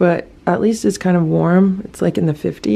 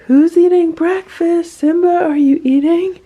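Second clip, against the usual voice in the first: retold yell upstairs; 12 semitones higher, 7 dB louder than usual. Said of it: "So I yell upstairs".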